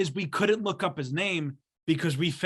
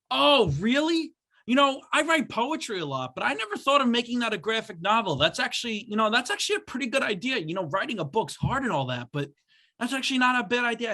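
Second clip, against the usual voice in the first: higher, excited odd-guy voice; imitating the strange gym customer, much higher; weird customer voice; 6 semitones higher than usual. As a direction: play the creepy guy flattered and eager.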